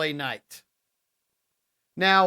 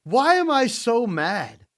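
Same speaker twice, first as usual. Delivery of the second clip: higher, slower put-on wrestler voice; imitating Drew McIntyre's self-questioning; mock Drew McIntyre; 9 semitones higher, 5 dB louder, slower than usual. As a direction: play him puzzled at his own anger. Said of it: "he's like".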